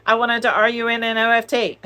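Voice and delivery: high, loud laughter through the spelling; laughing. Real, not acted. Laughing at her own movie-reference spelling joke. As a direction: giggle out the spelled word.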